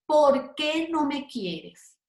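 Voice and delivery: slow, deliberate question with QUÉ held; example question. Shown as a demonstration. Teacher reading a grammar example to students, example question.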